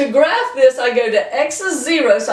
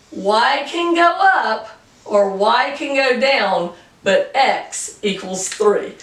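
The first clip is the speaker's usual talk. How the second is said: slow emphasis; slower than usual. Shown as a demonstration. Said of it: "and say no matter what".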